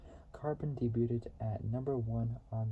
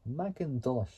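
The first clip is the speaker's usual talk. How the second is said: Macintosh said with a light Scottish lilt, a bit louder; Scottish accent; 4 dB louder than usual. Shown as a demonstration. Explaining the Scottish name, a mild Scottish accent. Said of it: "I think I said it right in a Scottish accent".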